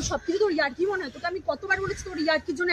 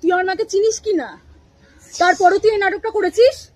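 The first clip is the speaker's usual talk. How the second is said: heated, raised accusation; angry quarrel over her mother; 3 semitones higher, 4 dB louder than usual. Acted. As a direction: confront him hard about her mother. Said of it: "রাগারাগি করে কি হবে".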